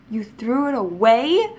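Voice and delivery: shocked outrage at mom; outraged child. Retold or imitated. Child shocked that mom threw the horse away, loud.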